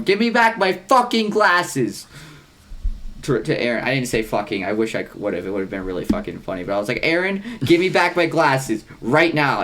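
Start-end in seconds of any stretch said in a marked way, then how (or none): 0.0-2.1 high, drawn-out mock yell; retold yell. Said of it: "I literally yell across the room". 7.0-9.6 higher, slow mock demand; retold yell. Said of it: "I literally yell across the room".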